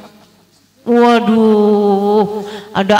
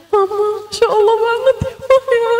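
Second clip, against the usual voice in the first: much higher, fast, mock little-kid awe; awed child; 11 semitones higher than usual. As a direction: play a nine-year-old gushing to mum. Awed child voiced in story. (menirukan anak kecil kagum, suara tinggi dan cepat)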